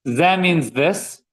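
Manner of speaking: Ze means this, each word slow and drawn out; slow teaching repeat. Shown as a demonstration. Teacher repeats ze for students, very slow and deliberate. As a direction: spell it out slowly for the class.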